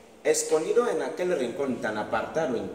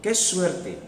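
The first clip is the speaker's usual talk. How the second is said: leaves whispering; 8 semitones higher than usual. Acted. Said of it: "susurran las hojas".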